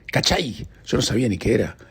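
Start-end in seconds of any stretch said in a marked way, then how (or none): 0.1-0.7 cachai lifted as a quoted foreign word; quoting Chilean slang. Retold or imitated. Host quoting Chilean slang he never heard, lifted. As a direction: hold up cachai as an odd new word. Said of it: "había escuchado ciertas palabras como".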